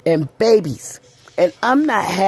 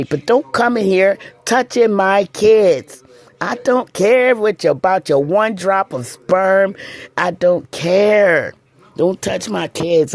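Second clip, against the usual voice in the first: heated, slowing to hammer each point; building up as she tells off the father; getting worked up. Real, not acted. Scolding the kids' father, getting worked up. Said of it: "I'm getting excited".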